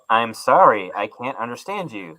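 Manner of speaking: imitating an automated menu's apology; mock recorded operator voice; automated phone voice. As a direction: play the phone system that can't understand. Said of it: "And the thing would go".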